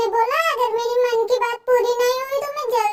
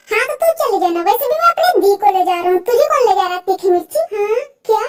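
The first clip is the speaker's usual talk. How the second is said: loud quarrel; 5 dB louder than usual. Acted. Brother and girl quarrel loudly.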